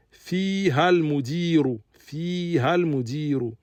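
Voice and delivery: fiha al-mudiru said carefully, fiha stressed; model answer. Shown as a demonstration. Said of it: "al-jawab". (fiha al-mudiru, articulé clairement)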